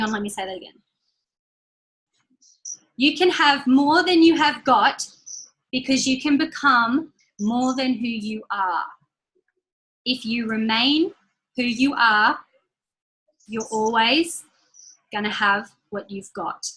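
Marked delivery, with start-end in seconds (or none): 3.0-14.4 slow dictation. Shown as a demonstration. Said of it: "I'm gonna say it slow so you can write it down".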